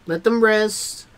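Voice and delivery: "Let them rest" drawn out slowly; unhurried "Let them rest". Shown as a demonstration. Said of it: "take your time".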